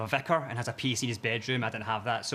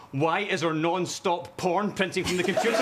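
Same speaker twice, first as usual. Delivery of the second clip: shocked vicar's wife; 3 semitones higher than usual. Retold or imitated. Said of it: "she just goes".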